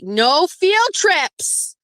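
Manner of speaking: high, drawn-out exclamation; exasperated refusal. Real, not acted. Host refusing listeners' field trip requests, in drawn-out exasperation.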